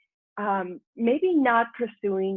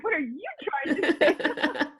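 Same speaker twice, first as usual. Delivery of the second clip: laughing mock Aussie accent from Perth; imitating Australian accent; 9 semitones higher than usual. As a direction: parrot the boss in a playful Australian accent. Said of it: "And he had this accent".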